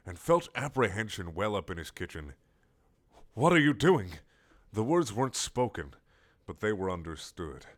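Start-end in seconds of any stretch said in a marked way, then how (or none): 3.3-4.2 startled castle. Acted. Castle startled by approaching squid.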